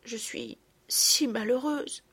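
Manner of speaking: slow, mild tearful plea; understated sob of an unhappy girl; bursting into tears. Acted. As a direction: let the tears break through, slowly. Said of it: "ajouta-t-elle en fondant en larmes".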